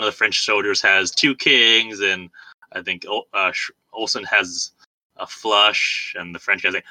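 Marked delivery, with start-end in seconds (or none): none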